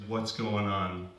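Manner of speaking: slow, low, lightly voiced tired cop; a hint of weary annoyance, low and slow; annoyed, sleepy policeman. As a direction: drag it out, lightly playing a drowsy officer. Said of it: "very annoyed, very sleepy policeman".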